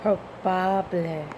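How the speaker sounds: "Probable" said slowly and softly, pro-BAH-bleh; slow try. Shown as a demonstration. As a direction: learner testing the word, slow and soft. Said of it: "Am I saying es probable".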